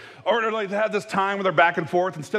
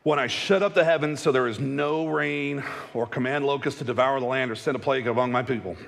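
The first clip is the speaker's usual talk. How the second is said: scripture reading. Acted. Reads scripture aloud.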